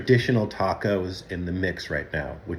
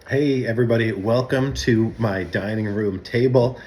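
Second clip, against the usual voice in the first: excited greeting; 4 semitones higher, 5 dB louder than usual. Acted. Host greets viewers on camera.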